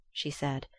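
ordinary delivery

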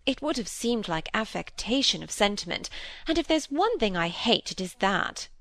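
a gently voiced vain stepmother; fussy stepmother. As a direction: chatter fondly, full of herself. Mrs Gibson voiced by reader.

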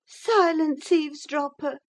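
high indignant cry; sharp cry. A narrator's reading. Catherine silencing the servant with a high indignant cry. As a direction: cut him off with a high cry. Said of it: "cried Catherine".

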